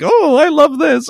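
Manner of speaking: high, loud breathy mock porn voice; porn actress moan. Imitating the porn still playing in the car, high mock moan. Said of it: "muffling in the, you know, in a pillow".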